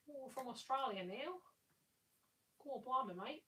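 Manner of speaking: exaggerated mock-Aussie with lifted word endings; bad Australian accent. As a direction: joke in a badly faked Australian accent. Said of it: "do a really bad accent".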